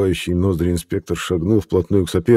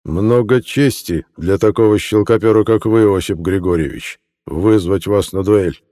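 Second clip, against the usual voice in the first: through teeth; 2 semitones higher, 5 dB louder than usual. Acted. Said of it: "процедил Мухин".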